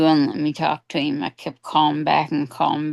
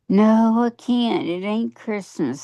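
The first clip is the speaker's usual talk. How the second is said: mock yelling; 5 semitones higher than usual. Aunt retelling Jenny still refusing Christmas, mild mock yell. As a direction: imitate an upset relative's yelled refusal, toned down. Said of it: "She's still yelling".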